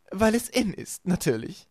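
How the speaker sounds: high, loud, airy reply; smug villainess. A narrator's reading. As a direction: answer as if it were obvious. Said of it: "antwortete Esme". (selbstgefällig, hoch und laut)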